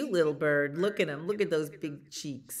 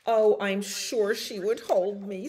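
higher, louder tearful chick; mock sobbing; 4 semitones higher, 6 dB louder than usual. A narrator's reading. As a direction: play a little bird sobbing out a wish. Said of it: "sobbed Chaco".

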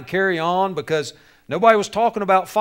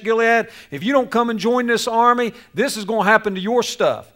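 raised, forceful preacher's threat; commanding, higher-pitched war summons; threatening ultimatum; 4 semitones higher, 5 dB louder than usual. Acted. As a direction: deliver a fired-up warning to the people. Saul's threatening message to the regions.

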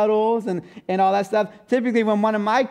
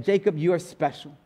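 motherly; 3 semitones lower, 3 dB quieter than usual. Retold or imitated. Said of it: "in the most, most motherly way".

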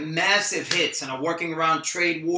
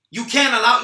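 outraged echo; 2 semitones higher, 8 dB louder than usual. Acted. Rocky throws Troy's words back, louder.

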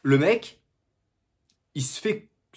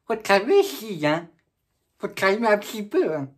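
mock scolding; 2 semitones higher than usual. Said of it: "j'ai envie de dire".

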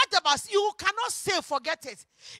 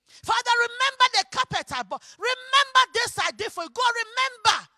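raised, higher-pitched insistent plea; pleading prayer; 4 semitones higher, 3 dB louder than usual. Acted. Preacher voicing a giver reminding God, raised pleading. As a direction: urge God to remember, voice lifted.

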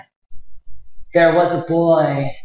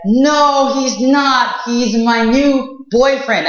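put-on higher pitched girl standing her ground; protesting princess; 5 semitones higher, slower than usual. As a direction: defend him like an indignant princess.

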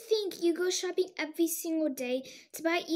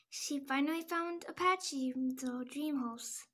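sad; 3 semitones lower, 6 dB quieter than usual. Acted. Stella sadly wishing for Apache.

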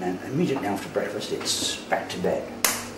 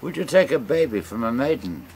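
louder, higher challenging question; captain's challenge; 4 semitones higher, 5 dB louder than usual. Acted. Captain of the push challenging the stranger, loud and high. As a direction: fire it at him as the gang leader.

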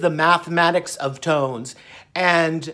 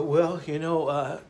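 mock mumble; 5 semitones lower, 11 dB quieter than usual. Imitating his old lazy self answering the doctor, soft. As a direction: mumble it lazily and softly. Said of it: "And I go".

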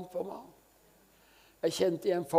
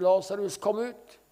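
louder, higher call to Lazarus rising on kom ut; ringing call; 4 semitones higher, 3 dB louder than usual. Retold or imitated. Preacher acting out Jesus calling Lazarus out, ringing call. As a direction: call him out of the tomb with force. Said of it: "Så når Jesus ropte".

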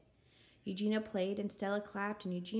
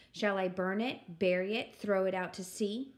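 said out with mild firmness; louder repeat; 3 dB louder than usual. Acted. Eugenia relishing the sound of her words, slightly louder. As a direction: declare it a touch more boldly. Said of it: "She said them louder".

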